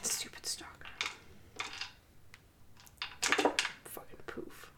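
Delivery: muttered under breath. Real, not acted. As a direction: grumble it quietly to yourself. Frustrated muttering at enemy.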